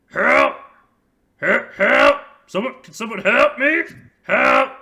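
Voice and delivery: high muffled shouts for help; cries for help. Acted. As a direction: yell for help from inside a tent. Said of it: "that's what it kinda sounds like. but muffled".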